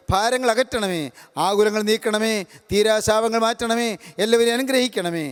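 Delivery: measured, gentle prayer voice; preacher praying aloud over the congregation; closing prayer. Acted. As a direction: pray over the listeners calmly.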